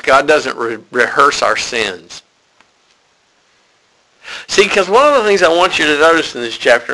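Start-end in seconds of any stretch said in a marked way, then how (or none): 0.0-2.2 slowed down so they can write it; God doesn't rehearse our sins, dictated slowly; slow dictation. Shown as a demonstration. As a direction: spell it out for note-takers, slowly. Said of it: "good way of writing it in your notes".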